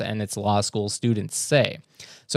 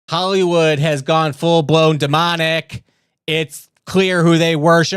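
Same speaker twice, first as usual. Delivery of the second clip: mock dramatic pronouncement; 3 semitones higher, 5 dB louder than usual. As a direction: declare it like a doom prophet.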